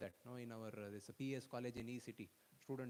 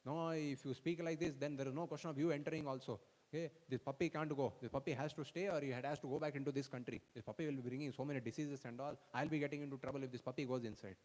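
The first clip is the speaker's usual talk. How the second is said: stern refusal; 4 dB louder than usual. Retold or imitated. Guard angrily refuses.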